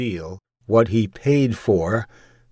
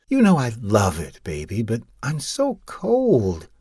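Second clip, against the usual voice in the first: unconvincing voice; 4 semitones higher, 3 dB louder than usual. Acted. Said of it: "said in an unconvincing voice".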